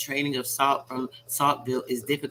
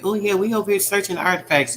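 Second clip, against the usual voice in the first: mock looter voice; 8 semitones higher, 6 dB louder than usual. Mocking looters caught on camera.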